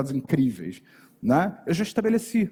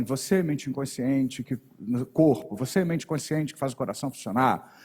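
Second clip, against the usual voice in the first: anchoring inflection; 2 semitones lower than usual. Shown as a demonstration. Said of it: "sempre com a mesma inflexão de voz".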